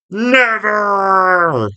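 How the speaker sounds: high, drawn-out mock cry; Optimus Prime. Reciting Optimus Prime's classic quote, drawn-out cry. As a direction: stretch it out like a dramatic battle cry. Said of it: "that classic quote from Optimus Prime".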